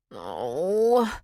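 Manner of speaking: mock pained groan; a small whiny groan; half-hearted theatrical groan. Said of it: "she groaned".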